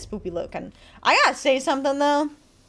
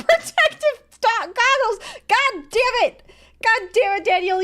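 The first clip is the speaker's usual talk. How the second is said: laughing exasperation; 10 semitones higher, 5 dB louder than usual. Real, not acted. Laughing at own reading slip.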